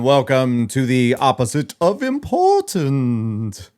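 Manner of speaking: slow, grand showman intro; announcer voice. Pretend. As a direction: announce it like a host. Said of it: "I don't know why I did that".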